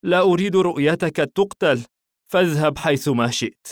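high, loud anguished plea, no real sobs; tearful. A narrator's reading. Madi lets his friend go to save him, mildly tearful. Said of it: "بكى بحرقة".

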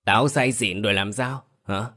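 put-on slurred drunken ranting; drunk slurring. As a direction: talk like a drunk, words slurred. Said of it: "giọng lè nhè đặc trưng của người say rượu". (giọng lè nhè say rượu)

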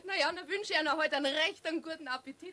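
quick words through laughter; laughing while talking. Acted. Fritz's mother to Eder, still laughing, fast. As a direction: keep laughing as you wish him well.

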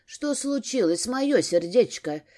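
мягко и медленно, с лёгкой заботой; успокой её, медленно выговаривая «моё сердечко»; искренняя тревога. Acted. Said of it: "искренне обеспокоился он". (с искренней тревогой, медленно)

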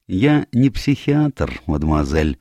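high, slow opening, dropping at the end; a measured, lightly theatrical detective; lightly voiced Poirot.

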